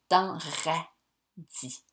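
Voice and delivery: dans radis drawn out very slowly; slow, deliberate dans radis; slow emphasis. Shown as a demonstration. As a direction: stretch radis slowly to show the I. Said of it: "c'est le I, notre voyelle".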